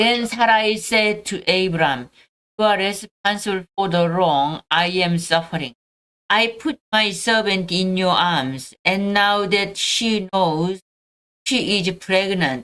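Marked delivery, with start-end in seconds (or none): none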